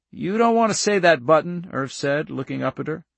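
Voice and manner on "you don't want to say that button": higher, emphatic farmer's counsel; earnest countryman. Acted. Irv counsels young Charlie, earnest. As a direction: urge the child kindly but firmly.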